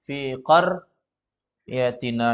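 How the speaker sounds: fi qaryatina spelled out slowly, syllable by syllable; teacher modelling it very slowly; slow careful model. Shown as a demonstration. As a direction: say fi qaryatina slowly with no doubled letter. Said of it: "tidak perlu pakai tasdid".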